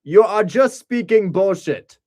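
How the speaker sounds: put-on high, loud, slow German-accented jab; mock German accent. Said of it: "He actually sounds like".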